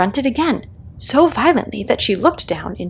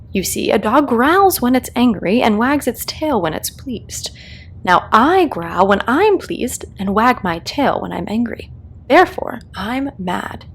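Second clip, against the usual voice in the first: a hint of a grinning cat, teasing; lightly voiced Cheshire Cat, amused; 3 semitones higher than usual. The Cat answers lost Alice, a touch of sly amusement. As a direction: tease her gently as the cat.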